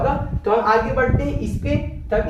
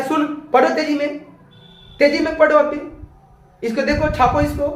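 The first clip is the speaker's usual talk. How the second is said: mild mock order; 3 semitones higher than usual. Shown as a demonstration. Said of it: "दोनों के tone में different".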